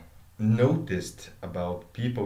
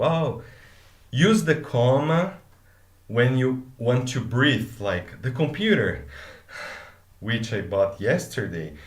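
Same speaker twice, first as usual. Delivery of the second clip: put-on old school teacher; 3 semitones higher, 4 dB louder than usual. Mocking the Portuguese school teacher's old comma rule. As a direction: imitate a fussy teacher giving advice. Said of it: "your Portuguese teacher said".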